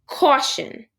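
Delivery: spelled out slowly like a warning sign; slow, emphatic warning-sign read. Shown as a demonstration. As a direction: read it like a posted caution sign, deliberately. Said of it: "our sign should say".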